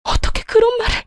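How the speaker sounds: high, soft breaking voice on the verge of tears; tearful. Acted. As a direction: choke out the words, hurt. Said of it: "네가 왜 우니". (울먹이는 며느리 목소리)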